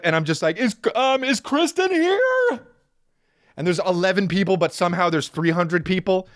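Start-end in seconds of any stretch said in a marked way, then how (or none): 0.6-2.6 much higher, slow timid asking; small awkward voice lost in a crowd; timid self. Retold or imitated. Arriving at the party, he timidly asks for Kristen.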